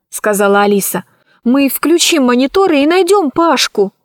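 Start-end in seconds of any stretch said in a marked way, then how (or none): 1.4-3.9 quick and keen; eager, higher girl voice. Acted. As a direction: rush him with a plan. Urging to run back.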